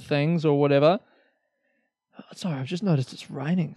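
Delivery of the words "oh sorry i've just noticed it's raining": quick whisper, fast; sudden whispered aside. Real, not acted. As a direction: whisper an aside as you spot the rain. Noticing rain mid-podcast.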